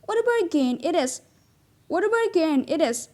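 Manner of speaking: bright exclaiming lift on "What a bargain it is"; exclamation demo. Shown as a demonstration. Teacher models an exclamation for the class, exclaiming. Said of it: "Then we say it like this".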